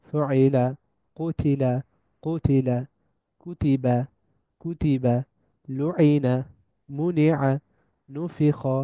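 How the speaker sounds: each word recited in tajweed style, two or three times; teacher modelling Quranic words; Arabic word drill. Shown as a demonstration. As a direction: recite each example clearly for repetition. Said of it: "যেমন আমরা উদাহরণ দেখি".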